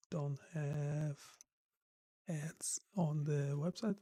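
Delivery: hoarse, half-voiced whisper; losing voice, words barely voiced; raspy whisper. Real, not acted. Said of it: "Sorry, I'm losing my voice".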